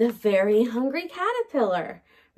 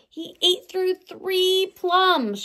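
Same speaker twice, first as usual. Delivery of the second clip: slow storytime reading; 6 semitones higher, slower than usual. Acted. Higher, slower storytime reading.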